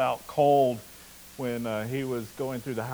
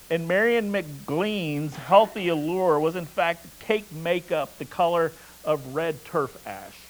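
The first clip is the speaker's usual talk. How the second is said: story narration; 2 semitones higher than usual. A narrator's reading. Preacher reading of an Irish village's first electricity, story narration. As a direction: read the passage out with emphatic openings, easing down to close. Reads a novel excerpt aloud.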